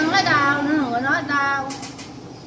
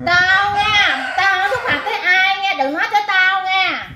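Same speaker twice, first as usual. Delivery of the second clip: real raised-voice protest; 3 semitones higher than usual. Real, not acted. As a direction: warn them off in a raised voice. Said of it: "đừng có la làng". (lớn tiếng cảnh cáo, gay gắt)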